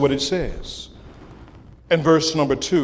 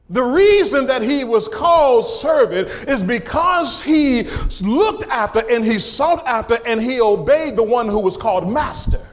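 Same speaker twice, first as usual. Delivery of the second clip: driving sermon cadence, punching the key words; impassioned preaching; 6 semitones higher than usual. Real, not acted. Extolling the Lord God to the church, impassioned preaching. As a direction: proclaim it to the congregation in rolling phrases.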